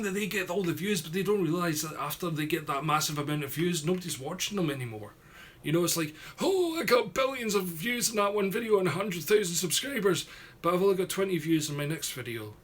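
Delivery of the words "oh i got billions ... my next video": higher-pitched mock boast, then deflating; mock bragging. Streamer mocks trend chasers to viewers, mock bragging. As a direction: imitate a view-chaser crowing over one hit.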